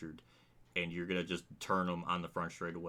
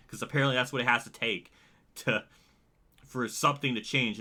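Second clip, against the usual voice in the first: louder, higher bitter sarcasm; real angry venting, louder and higher; angry sarcastic rant; 3 semitones higher, 6 dB louder than usual. Real, not acted. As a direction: spit out the sarcasm, furious. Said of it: "I'm angry about it".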